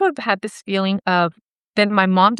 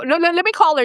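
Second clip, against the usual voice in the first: retold insistence; 10 semitones higher, faster than usual. Retold argument over calling mom.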